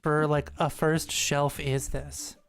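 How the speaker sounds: exasperated rant. Real, not acted. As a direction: vent at the game maker in disbelief. Ranting at game's shelf placement.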